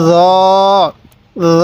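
র said as a soft, long-held "zo", not a hard j. Shown as a demonstration. Teacher shows learners the letter, soft zo for র. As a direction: let র buzz softly as "zooo". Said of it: "নরম করে উচ্চারণ করব".

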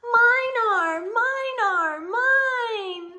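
high, loud sing-song chant of mine; high singsong little-one reply; eager little voices. Acted. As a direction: chant it like an excited toddler claiming. Eager answer to story question.

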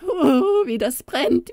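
high goblin wailing in pain; wild cry of pain. Acted. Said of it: "schrie er wild".

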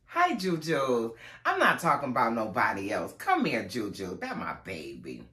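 tender pet talk. Real, not acted. Greeting her cat.

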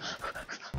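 quiet demonstrated panic gasp; short unvoiced gasp of mock panic; panicked gasp. Shown as a demonstration. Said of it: "When I panic, I'm like".

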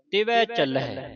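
ਤਿਵੈ with a broad ਐ ending; correct reading. Shown as a demonstration. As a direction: say ਤਿਵੈ not ਤਿਵੇ. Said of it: "ਤਿਵੇ ਨਹੀਂ ਪੜ੍ਹਨਾ ਇਹਨੂੰ".

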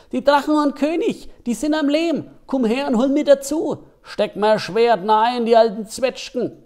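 high, loud Franconian poem voice, pleading; plum figure's lament. Acted. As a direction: give the forgotten toy figure a longing plea. Gedicht der Zwetschgenmännla-Figur, fränkisch. (sehnsüchtige, hohe fränkische Figurenstimme)

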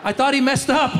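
ordinary delivery

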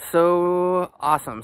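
high, loud and thrilled; excited. Real, not acted. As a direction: burst out with delight. Thrilled reaction at the sauna.

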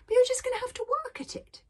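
a hint of a lecturing elder; lightly voiced old grandfather. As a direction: lightly play grandfather giving frank advice.

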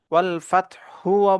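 "ফাতহুও" with an added u after the h; wrong vowel ending. Shown as a demonstration. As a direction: end "ফাতহুও" on a voiced hu. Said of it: "বলবো না".

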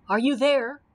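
loud, worried call; anxious rumble. A narrator's reading. Cowardly Lion calling up to the knight, anxiously. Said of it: "rumbled the Cowardly Lion anxiously".

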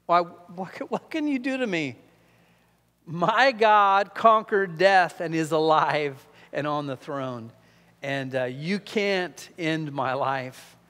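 a lightly voiced martyr facing death; defiant Peter. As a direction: challenge them without fear. Peter defies his executioners.

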